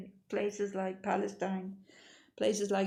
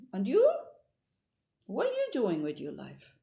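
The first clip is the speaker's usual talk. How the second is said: sudden loud demanding question; loud challenge; 3 semitones higher, 5 dB louder than usual. Retold or imitated. Rich man loudly quizzing the punk, loud demand.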